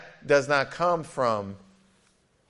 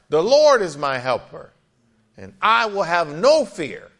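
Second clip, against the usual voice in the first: proclaimed loudly; 4 semitones higher, 7 dB louder than usual. Shown as a demonstration. Preacher proclaims verse again, louder.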